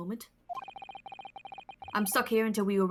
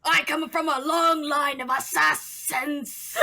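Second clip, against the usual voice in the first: slow, louder, hissy villain voice; hissing villain voice; 4 semitones higher, 4 dB louder, slower than usual. Acted. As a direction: lean on the S's slowly. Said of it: "my Siren Dogan voice now has to use more S's".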